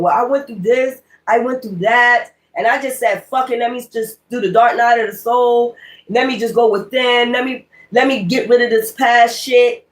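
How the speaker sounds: imitating nosy people asking about your awakening, high and eager; mock eager seeker. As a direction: play a breathless spiritual tourist. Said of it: "You gonna meet people just talk just like that".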